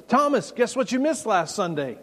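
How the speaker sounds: mock-excited friend bursting with news; excited news-breaking. Acted disciples telling Thomas the news.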